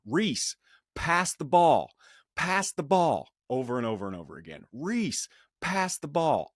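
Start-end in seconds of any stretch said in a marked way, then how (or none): 0.0-3.3 raised, higher coach's yell across the court. Retold or imitated. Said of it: "I just start yelling". 4.7-6.5 higher-pitched retold coach's yell. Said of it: "I just start yelling".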